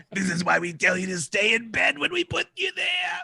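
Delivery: mock parental rant building to a yell; hammed-up exasperated scolding. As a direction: climb in pitch as you scold.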